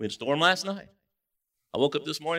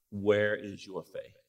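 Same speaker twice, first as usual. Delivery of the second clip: slow rebuke; 4 semitones lower, much slower than usual. Acted. Jesus asks the disciples.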